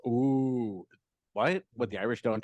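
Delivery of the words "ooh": imitated crowd "ooh"; mock disapproving "ooh"; mock-offended "ooh". Comic questioning the crowd's offense, imitated disapproving "ooh". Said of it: "why would anyone think that's".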